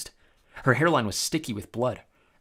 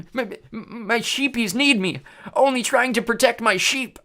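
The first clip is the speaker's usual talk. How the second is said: high, slow whimpering giant voice; pitiful cyclops; 12 semitones higher, 5 dB louder, slower than usual. A narrator's reading. Beaten Cyclops pleading over his sheep, pitiful. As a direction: whine like a wounded brute.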